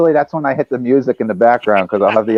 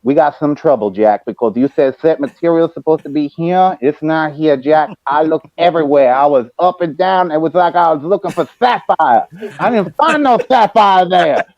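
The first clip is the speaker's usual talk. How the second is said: Dusty voice. Retold or imitated. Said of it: "in that voice".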